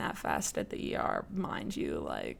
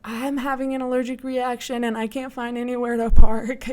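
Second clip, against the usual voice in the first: laughing plea; 2 semitones higher, 9 dB louder than usual. Retold or imitated. Panicked plea to security officer.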